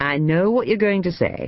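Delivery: playful teasing tone. A son addresses his mother as he brings her supper tray, teasing. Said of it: "he teased".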